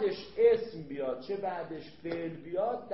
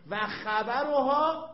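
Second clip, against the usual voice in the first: slow, loud, high stress; emphatic term; 7 semitones higher, 8 dB louder, much slower than usual. Shown as a demonstration. Teacher loudly marks the key term for students. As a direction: drag out the word to mark it.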